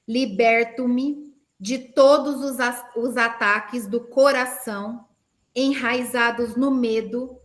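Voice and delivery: spaced-out prayer declaration; measured, pausing between words; slow with pauses. Shown as a demonstration. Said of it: "Eu vou falar pausadamente". (oração pausada e firme)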